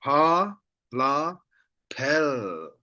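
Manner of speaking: "Pa, la" apart, then blended "pel"; spelling out. Shown as a demonstration. Teacher spells for learners, "Pa, la" blended into falling "pel". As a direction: sound out "Pa", "la", then join as "pel". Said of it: "we say".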